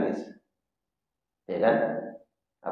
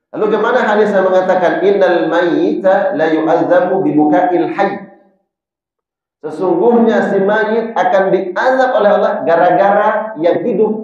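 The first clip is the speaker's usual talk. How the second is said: emphatic objection; 7 semitones higher, 6 dB louder than usual. Acted. Raising a puzzling objection.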